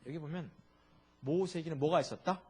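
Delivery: ordinary talk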